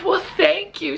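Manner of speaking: put-on a touch of a delighted elderly woman thanking her; older lady's thanks. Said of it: "And she said".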